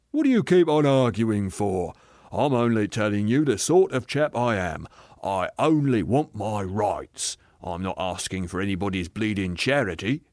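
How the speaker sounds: self-righteous working man, insistent; blustering ghost. Acted. Aggrieved ghost defending the life he led, blustering. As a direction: push each claim like a stubborn grumbler.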